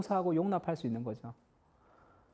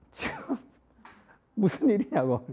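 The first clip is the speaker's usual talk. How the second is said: startled wife. Retold or imitated. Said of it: "우리 아내가".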